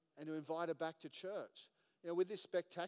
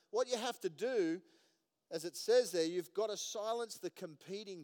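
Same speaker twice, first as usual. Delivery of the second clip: raised preaching; 5 semitones higher, 7 dB louder than usual. Real, not acted.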